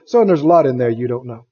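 a low, gentle, amused answer to a son; the Lord smiling at a preacher who thinks he knows the Bible; gentle smiling reply. Retold or imitated. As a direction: smile through it, fatherly and kind. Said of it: "the Lord smiled and said".

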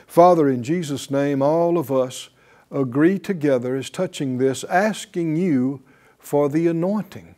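earnest spoken prayer to the Father. Real, not acted. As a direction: pray it sincerely, steady and devout. Prayer before the lesson.

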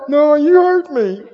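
slow, high, whiny sulk; milk the hurt, drawn out; mock sulk. Pretend friend sulking at preacher, slow whiny sulk.

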